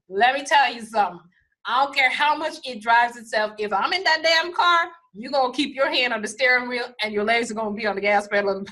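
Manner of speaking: emphatic refusal. Retold or imitated. Retelling her refusal to son.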